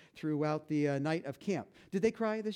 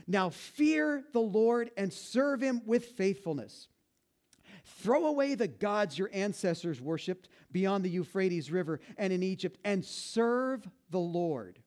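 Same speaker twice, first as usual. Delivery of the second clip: slow, measured reading of scripture. Acted. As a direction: read it solemnly and slowly. Reads Joshua speech aloud.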